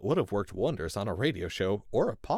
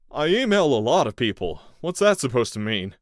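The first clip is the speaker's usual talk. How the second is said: defensive captive man; 5 semitones higher, 10 dB louder than usual. A narrator's reading.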